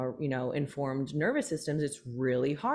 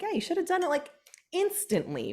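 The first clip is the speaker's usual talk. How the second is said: mock impatient voice; 14 semitones higher than usual. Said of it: "you're like".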